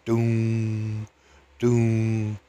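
church bell doom. Retold or imitated. Narrator imitating the church bell chiming down yonder. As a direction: boom out like a distant church bell. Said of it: "It was chiming".

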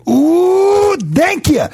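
a high-pitched, overjoyed thank you; high delighted ooh. Retold or imitated. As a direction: squeal it out like a thrilled stranger. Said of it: "That was his exact response".

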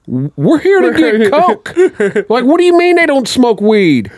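laughing disbelief. Retold or imitated. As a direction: laugh through the outrage.

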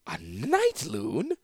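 slow, drawn-out disbelieving question; incredulous. Acted. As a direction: repeat it as if you can't believe it.

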